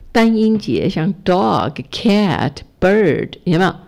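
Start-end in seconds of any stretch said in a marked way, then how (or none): 1.2-3.3 "dog", "cat", "bird" each falling sharply; one-syllable words "dog", "cat", "bird" like Mandarin fourth tone; fourth-tone falling stress. Shown as a demonstration. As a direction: drop the pitch firmly on "dog", "cat", "bird". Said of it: "第四声".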